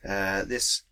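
slow, slightly grand scene setting; game master narration. Acted. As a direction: paint the spell for the table. GM describes the spell effect.

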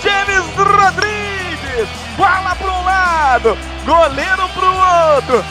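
excited goal call. Real, not acted.

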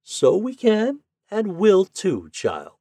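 high, drawn-out agreement, dropping at the end; pleased old woman agreeing; agreeing grandmother. A narrator's reading. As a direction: reassure a child with happy conviction.

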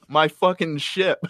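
mock outraged Babidi. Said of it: "Babadi's like".

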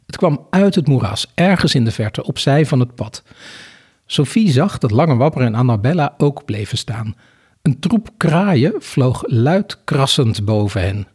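measured read-aloud storytelling; story narration. A narrator's reading. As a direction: read the scene out with deliberate phrasing. Reads a story passage aloud. (rustig voorlezend vertellen)

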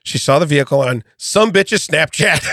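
a hint of a sassy woman; lightly voiced defendant reading her own quote. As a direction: read it as the arrested woman would say it. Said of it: "I'm gonna do it in her voice".

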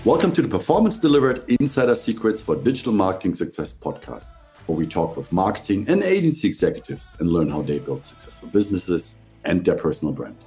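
upbeat pitch-lifted scripted show opening; podcast host intro. Real, not acted. Host welcoming listeners and introducing the branding guest, presenter voice.

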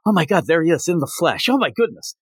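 fast, high flustered gush; mock fan meeting her idol; lightly voiced swooning girl; freaking out. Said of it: "she's just freaking out".

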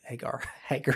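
Hagar in a Southern accent, ending "-ger"; softly laughing over a Southern "Hagar". Real, not acted. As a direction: say "Hagar" with a Southern lilt, amused. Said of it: "That's my southern accent".

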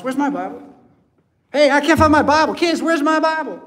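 loud, high frantic calls through the house; frantic shouting. Acted. Preacher playing a parent calling the kids about a Bible, frantic shout. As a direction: yell for the lost Bible like it's an emergency.

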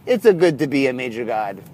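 badly faked French accent, slightly low; horrible French accent. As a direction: attempt a Mel Brooks line in a botched French accent. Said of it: "That was a horrible accent".

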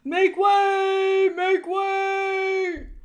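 high, loud, long-held call; crier's shout with the last word stretched. A narrator's reading. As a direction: holler to clear a path. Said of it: "the threadmaster calling out".

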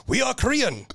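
high-pitched mock protest; indignant Korean colonel. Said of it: "I said it like that".

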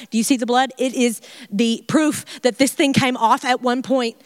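lightly voiced amazed servant, a little fast at times; breathless disbelief, telling the family; amazed healed servant. Healed servant telling his household, lightly amazed. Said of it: "him telling this story".

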